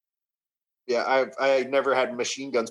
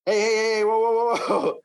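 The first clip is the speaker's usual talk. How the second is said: calming shout; 9 semitones higher, faster than usual. Retold or imitated. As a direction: wave everyone down with your voice. Cops calming down the situation.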